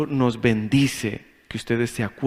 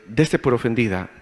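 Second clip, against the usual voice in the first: mock insult; 3 semitones lower than usual. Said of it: "Le digo".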